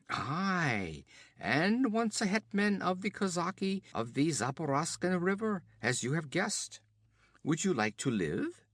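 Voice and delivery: höher und lauter, prahlerisch spöttisch; höhnischer Räuberhauptmann. Acted. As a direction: ein Wüstenräuber verhöhnt den Gefangenen. Olgerd prahlt.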